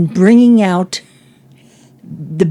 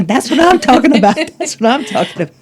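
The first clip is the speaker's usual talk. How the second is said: excited catchphrase; 6 semitones higher, faster than usual. Retold or imitated. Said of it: "Like, you know".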